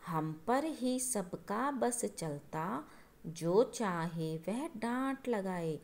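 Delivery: very slow, drawn-out reading of the verse; slow poem recital. Shown as a demonstration. Teacher reciting the father's warning from the poem, slowly. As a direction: stretch each word like a recited poem.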